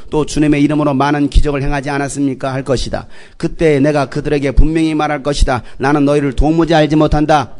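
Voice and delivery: scripture reading aloud. Real, not acted. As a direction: read the verses out steadily in one tone. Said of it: "큰 목소리로 성경을 찾아서 읽겠습니다".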